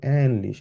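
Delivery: অ্যানলিশ with long ä and falling end; rhythmic pronunciation. Shown as a demonstration. Teacher repeating it in rhythm, অ্যানলিশ long then falling. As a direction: say অ্যানলিশ in rhythm, first vowel stretched. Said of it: "একটা রিদমে বলবো".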